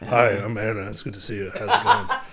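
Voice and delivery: lightly imitated sultry bedroom voice; a hint of seductive bedroom greeting; mock bedroom voice. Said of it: "very bedroom voice".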